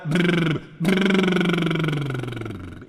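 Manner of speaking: high buzzing lip roll, short then long; lip trill. Shown as a demonstration. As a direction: blow a raspberry-like lip trill like a child. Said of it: "igual quando você era criança".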